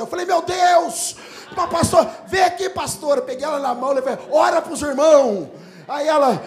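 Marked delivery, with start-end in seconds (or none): 0.2-3.2 loud, high mock amazement; re-enacted booming excitement; excited shout. Acting excited reaction to girl. 4.3-5.5 loud, high, drawn-out call; re-enacted rousing command; commanding shout. Calling on girl to pray.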